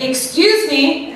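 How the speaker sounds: slow, drawn-out huffy excuse me; slow, sarcastic huffy excuse me; snippy. Shown as a demonstration. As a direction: stretch it out with an edge. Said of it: "It doesn't have to be like".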